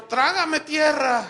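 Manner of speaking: high, loud, slow laughing groan; hammed-up embarrassment; mortified laugh. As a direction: wish the ground would swallow you, laughing. Preacher's mortified reaction.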